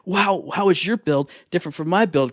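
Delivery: excited, rapid-fire buddy questions; playful imagined fan excitement; eager gamer chatter. Pretend. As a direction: gush like friends comparing game notes. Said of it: "so we could be like".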